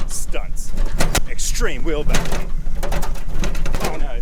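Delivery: very loud, high stunt cheering; excited yelling. Real, not acted. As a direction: whoop over the bumps. Driving stunts in trundle.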